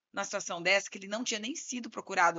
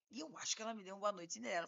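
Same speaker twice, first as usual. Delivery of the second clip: imitating client, quick and softer; client's comic intonation; 7 dB quieter, much faster than usual. Client telling lawyer he was drugged, comically casual imitation. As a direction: mimic a hurried, matter-of-fact confession. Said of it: "ele fala nessa entonação, muito engraçado".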